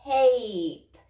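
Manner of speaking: Tape said quickly and loudly as one word; said fast. Shown as a demonstration. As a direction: snap Tape together, loud and quick. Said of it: "Say it fast".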